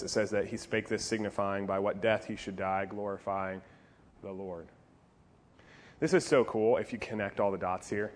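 usual speaking voice

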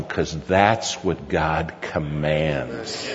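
slow, drawn-out emphatic declaration; solemn insistence. Retold or imitated. Father telling son to love truckers, slow and solemn. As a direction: stretch the words out with weight. Father laying down God's command.

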